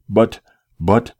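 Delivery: breathless stammer; panting. A narrator's reading. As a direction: gasp out the words. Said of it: "I panted".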